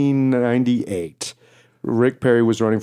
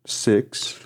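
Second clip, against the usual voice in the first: elevator countdown; much slower than usual. Retold or imitated. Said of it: "the elevator went".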